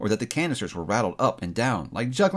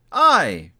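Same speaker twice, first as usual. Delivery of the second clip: echoing ethereal energy being; 6 dB louder than usual. Acted. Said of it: "cried the spirit".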